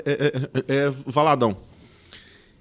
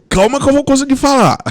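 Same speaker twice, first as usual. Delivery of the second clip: loud, high retold blurt; nervous outburst; 8 semitones higher, 8 dB louder than usual. Stuck stutterer to staring job candidates, nervous outburst. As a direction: burst out pleading for time, played for laughs. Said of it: "aí que eu fiquei nervoso mesmo".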